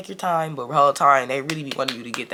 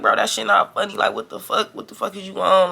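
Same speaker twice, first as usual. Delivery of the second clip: raised-pitch retold exasperation; getting irritated; 5 semitones higher than usual. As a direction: challenge a friend who finds it funny. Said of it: "now I'm getting irritated".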